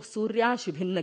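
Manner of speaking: "सूर्याशुभिन्न" with the nasal dropped after या; mispronounced "सूर्याशुभिन्न", no m sound before शु; wrong pronunciation. Shown as a demonstration. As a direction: say "सूर्याशुभिन्न" with a plain open आ, no anusvara. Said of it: "ऐसा नहीं".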